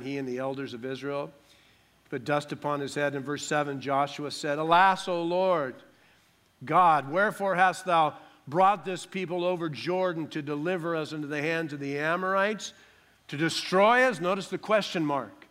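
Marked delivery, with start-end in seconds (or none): 4.6-14.2 loud, raised cry of dismay to God; dismayed lament. Acted. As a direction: read it as an anguished appeal. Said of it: "now we have dismay".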